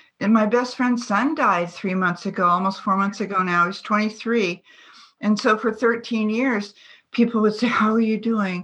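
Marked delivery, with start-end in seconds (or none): 7.7-8.7 put-on, mock mournful, lugubrious tone. Retelling how people would ask after a friend: imitating a lugubrious tone. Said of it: "in this kind of lugubrious way".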